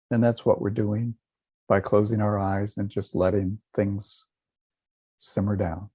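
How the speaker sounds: calm, unhurried meditation guidance with long silences; guided meditation. Real, not acted. Teacher guiding listeners to relax and feel a smile, calm meditation voice. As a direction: lead them gently, leaving space after each instruction.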